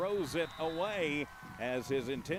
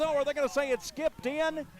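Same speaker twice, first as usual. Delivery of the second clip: surprised; 8 semitones higher, 6 dB louder than usual. Real, not acted. Disputed catch call.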